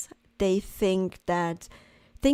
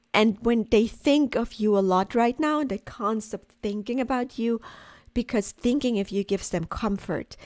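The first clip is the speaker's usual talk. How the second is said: crying on the phone. Real, not acted. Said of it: "I can't stop crying".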